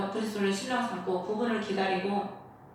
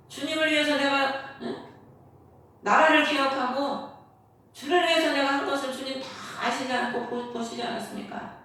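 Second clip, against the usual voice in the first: imitated plea to God, pushed a little higher and louder; retold tearful prayer; 4 semitones higher, 3 dB louder than usual. Hezekiah praying to God in the temple as death nears, imitated pleading. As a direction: plead insistently, as if retelling a desperate prayer. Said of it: "성전에 가서 눈물 흘리면서".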